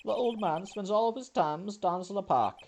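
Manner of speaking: high-pitched French character voice; French restaurateur voice; French accent. Acted. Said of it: "I can't do a goofy French accent".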